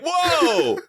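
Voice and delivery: gobsmacked whoa; startled in character. Acted. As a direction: blurt it out amazed. Protean unit reacting in character.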